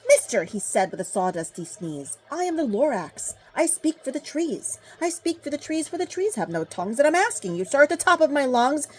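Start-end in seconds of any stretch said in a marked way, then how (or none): 0.1-0.4 loud, high sharp call; bossy call. Acted. Lorax calling out bossily to the Onceler. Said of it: "He was very upset as he shouted". 2.3-8.9 high, insistent Lorax voice swelling loud at the end; sharpish, bossy Lorax. Acted. Lorax scolding the Onceler for the trees, high and bossy. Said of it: "a voice that was sharpish and bossy".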